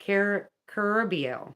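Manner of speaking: Carabiel with the second syllable stressed. Shown as a demonstration. Practicing the angel's name, Carabiel stressed on the second syllable. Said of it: "pronounced with the emphasis on the second syllable".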